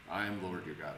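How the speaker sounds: a soft, even "I am Lord your God"; quiet and level, no stress on "your". Shown as a demonstration. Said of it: "Emphasis on your".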